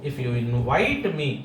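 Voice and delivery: very slow, each word spelled out for the class; slow dictation. Shown as a demonstration. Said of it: "क्या लिखेंगे हम यहाँ पे?".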